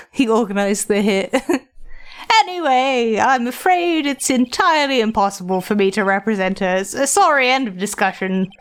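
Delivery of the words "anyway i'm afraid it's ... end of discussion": lightly voiced grand old gentleman; a hint of a self-important lawyer; pompous old lawyer. Old lawyer receiving a young visitor, lightly pompous.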